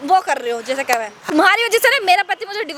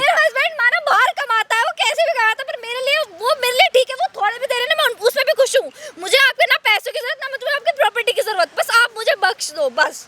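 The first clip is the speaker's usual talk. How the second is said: higher-pitched, insistent plea; pleading in a raised pitch; earnest pleading; 5 semitones higher than usual. Acted. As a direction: beg to be left alone. Begging him to leave her alone.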